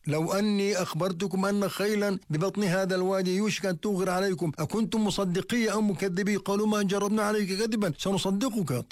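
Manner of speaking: calling from the hill. Retold or imitated. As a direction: raise the pitch, announce it like a warning from afar. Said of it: "ينادي فيهم".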